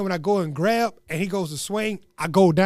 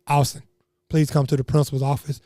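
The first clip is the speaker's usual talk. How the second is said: lower, measured announcement voice; principal on intercom; 6 semitones lower than usual. Retold or imitated. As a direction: imitate an office page over the intercom. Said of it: "principal's calling".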